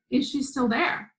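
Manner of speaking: lightly voiced mother checking on her child; questioning mother. Mother asks daughter about the woman, questioning.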